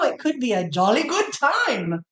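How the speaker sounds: bad British accent. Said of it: "See, bad".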